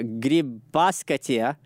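Grybauskaitė said slowly, in careful pieces; sounding out name. Real, not acted. Host retrying the Lithuanian president's surname, Grybauskaitė slowly sounded out. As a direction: feel your way slowly through Grybauskaitė. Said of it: "How the fuck am I supposed to say that name".

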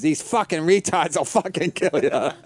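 slow mock-mad Long Island teacher; hammed-up grumbling, close to laughing; retold angry teacher. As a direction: imitate a fed-up local, drawn out. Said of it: "they were so mad still".

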